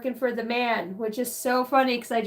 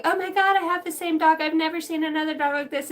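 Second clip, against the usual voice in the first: excited bakery guy; 5 semitones higher, faster than usual. Retold or imitated. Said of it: "this guy's like".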